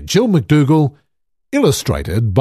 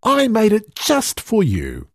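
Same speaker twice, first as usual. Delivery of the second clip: Hedda's voice; 9 semitones higher than usual. A narrator's reading. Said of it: "said Hedda".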